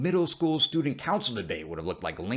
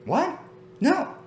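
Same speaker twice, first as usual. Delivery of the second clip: startled. Acted. Startled by mishearing.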